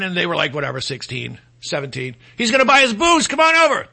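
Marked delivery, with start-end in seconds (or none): 2.4-3.9 higher, imitating an eager teenage friend; excited retold invitation. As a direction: coax a friend over, acting it out.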